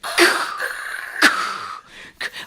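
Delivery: skateboard noise. Retold or imitated. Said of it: "your skateboard was like".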